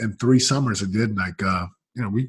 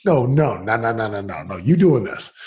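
shocked wife; 2 semitones higher, 5 dB louder than usual. Retold or imitated. Wife hearing her husband will quit, in shocked protest. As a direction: voice the wife's alarmed disbelief. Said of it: "She's like".

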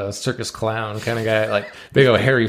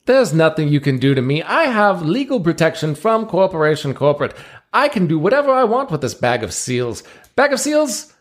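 showman ringmaster; 5 semitones higher than usual. Acted. Ringmaster presenting seals to the crowd, grand showman voice. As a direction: play the circus ringmaster working the crowd.

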